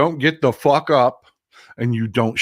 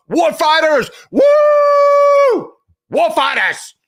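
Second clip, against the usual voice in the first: much higher, loud hammed-up hype shout; mocking Pete Hegseth; 7 dB louder, much slower than usual. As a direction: play a TV tough guy pumping up the troops. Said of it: "Supposed to say that every day".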